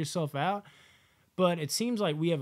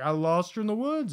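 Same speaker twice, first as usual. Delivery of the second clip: lightly hammed-up fake distress, higher; mock performance; 7 semitones higher, 5 dB louder than usual. Misty fakes worry to the group, lightly hammed-up. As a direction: put on a fake show of worry. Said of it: "give a performance".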